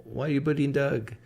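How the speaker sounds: high-pitched mock objection; imitated protest. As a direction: imitate startled viewers objecting. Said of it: "people start saying".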